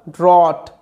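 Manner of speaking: ড্রট said as one word, ড্র plus অট; blended pronunciation. Shown as a demonstration. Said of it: "ড্র, তার সাথে অট". (ড্রট জুড়ে উচ্চারণ)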